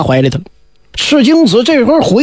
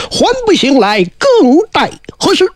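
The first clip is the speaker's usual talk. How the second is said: higher, sung-out Daoist summons; summoning call; 7 semitones higher than usual. Acted. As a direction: chant it out to wake the dead. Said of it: "叫了一声".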